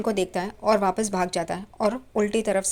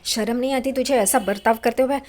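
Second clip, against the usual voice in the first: father's angry shout, retold; retold loud scolding; 2 semitones higher, 4 dB louder than usual. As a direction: scold him loudly, as if retelling a father's outburst. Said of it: "Paresh ज़ोर से चिल्लाने लगते हैं".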